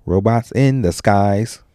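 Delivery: robots in the skies, misheard; slow sung robots in the skies; mishearing lyric. Retold or imitated. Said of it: "A lot of people like".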